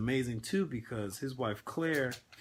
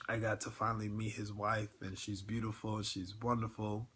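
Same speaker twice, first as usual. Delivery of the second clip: quiet, tight voice holding back tears; soft and fighting the lump in the throat; choked up; 4 dB quieter than usual. Real, not acted. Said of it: "getting all choked up".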